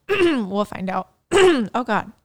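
throat-clearing after a sip; phlegmy from a drink; while sipping a drink. Real, not acted. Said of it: "I'm drinking kombucha, it gets you a little phlegmy".

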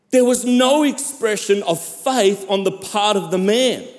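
emphatic sermon delivery with long dramatic pauses; preaching. Acted. Pastor telling the church of a healing miracle, preaching. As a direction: preach it in swelling, weighted phrases.

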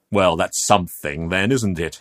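crisply dismissive; brisk, slightly sardonic reply. Acted. Man answers the frightened youth, crisply. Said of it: "he said crisply".

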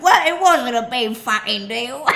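mock dismissive. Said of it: "He's like".

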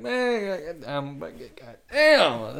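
slurred, slow high grumble; put-on wasted drifter, words dragged out; crackhead's exact voice. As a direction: mumble curses like a man out of his mind. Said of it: "that's his exact voice, by the way".

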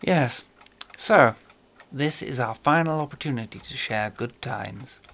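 lightly voiced suave villain; a hint of a genteel British horror actor; Peter Cushing voice. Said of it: "Peter Cushing as Major Benedek".

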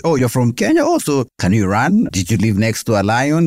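mock naive questioner. Mimicking ignorant Canadians' questions.

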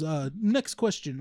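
slow, imitated Russian accent. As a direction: announce it slowly with a light Russian accent. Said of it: "it sounds like a Russian accent".

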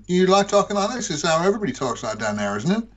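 mock American Southern accent; hammed-up American accent; attempted American accent. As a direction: imitate an American from down there. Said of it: "I can do yours if you want to".

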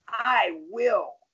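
a touch of mean resolve, slightly high; firm retort with a hint of menace; almost mean. Social worker answering the father's challenge, almost mean. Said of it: "almost mean".

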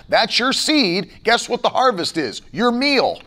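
normal talking voice

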